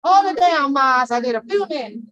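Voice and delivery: calling out. Real, not acted. Vlogger shouting out to Mars before her break, loud calling out. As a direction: call it across the room to a friend.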